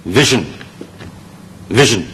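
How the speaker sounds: vision, slow, stressed on vi; careful slow demo of vision; correct pronunciation. Shown as a demonstration. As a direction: model vision slowly for the class. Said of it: "成個字嘅發音呢就係".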